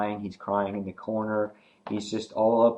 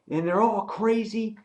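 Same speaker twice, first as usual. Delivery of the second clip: ranting Nicholas; 11 semitones higher than usual. Retold or imitated. Nicholas ranting at the group, much higher. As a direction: demand an answer from the group. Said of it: "he's like".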